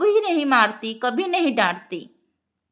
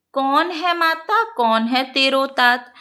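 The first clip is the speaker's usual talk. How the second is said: verse recitation. Shown as a demonstration.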